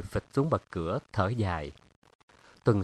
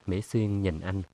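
usual speaking voice

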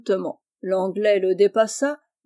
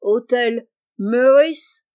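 put-on slow, louder, heavily English-accented French; same solemn English accent; 3 semitones higher, 7 dB louder, much slower than usual. Monsieur Abel repeating himself to the grocer, solemn English accent. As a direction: stretch it out in a pompous English accent. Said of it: "même accent".

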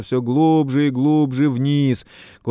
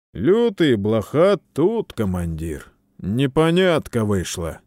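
soldier's voice; 2 semitones higher, 3 dB louder than usual. Acted. Soldier Блоха reports to commander.

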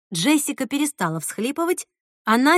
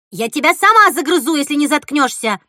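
louder, higher threat; angry threat; 5 semitones higher, 7 dB louder than usual. A narrator's reading. Girl threatening her cousin, angry. Sisters quarrel.

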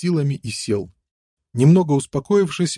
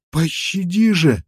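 slow, high desperate plea; pleading; 6 semitones higher than usual. A narrator's reading. Prisoner begs the armed man for mercy, pleading high. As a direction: beg for your life. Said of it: "взмолился он".

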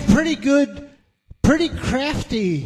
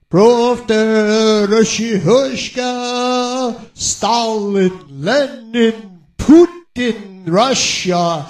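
mock Russian; much slower than usual. Mock Russian chant of names.

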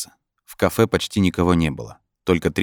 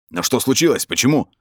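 higher, urgent questioning; mild alarm; 6 semitones higher, 3 dB louder than usual. A narrator's reading. Brin questions the voice in his head, mildly alarmed. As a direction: ask with a touch of panic.

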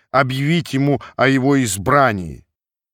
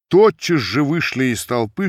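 plain reading voice

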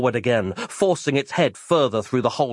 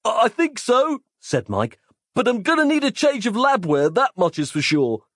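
higher, shaky hero voice; dazed Mike; 11 semitones higher than usual. Acted. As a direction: answer sheepishly, stammering.

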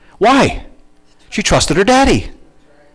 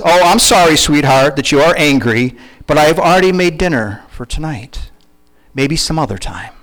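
calm mother; 5 semitones lower than usual. Retold or imitated. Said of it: "say something like this".

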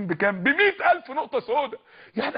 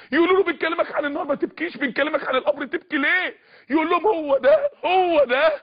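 weeping retelling; 5 semitones higher than usual. Retold or imitated. (بصوت باكٍ عالٍ)

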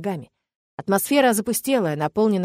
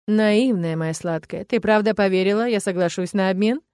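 mocking sneer. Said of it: "усмехается ублюдок".

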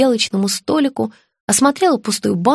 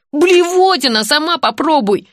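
displeased; 6 semitones higher than usual. A narrator's reading. Son rejecting the spaghetti, disgusted and higher. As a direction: spit it back at his mother. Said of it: "недовольно произнёс Родион".

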